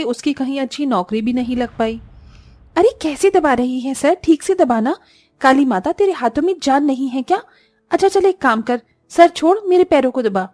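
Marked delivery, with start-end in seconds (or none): 2.8-10.5 sharp, higher taunting scold; scolding sister-in-law. Acted. Sister-in-law taunting Disha, sharp scolding. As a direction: belittle her with every word.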